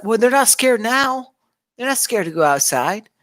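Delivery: high, loud indignant burst; indignant retort. Real, not acted. Vlogger retorting to rioters, loud indignant. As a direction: fire back with outrage.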